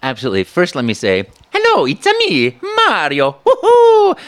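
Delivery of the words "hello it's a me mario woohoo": very high, loud, exuberant Italian game-hero greeting; Mario. Acted. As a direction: belt it high with a whooping finish. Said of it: "He's the voice of Mario".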